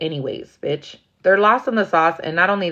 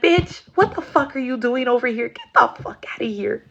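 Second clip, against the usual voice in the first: higher, pushy mock friend voice; bossy friend; 6 semitones higher than usual. Friend scolding outside the house at night, high and bossy. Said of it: "I'd be the friend".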